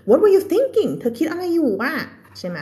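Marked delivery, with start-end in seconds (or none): 0.1-0.9 "were" punched, higher and louder; exasperated. Shown as a demonstration. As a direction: throw up your hands as you say it. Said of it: "expression ความรู้สึก". (เน้นคำว่า were แบบหงุดหงิด)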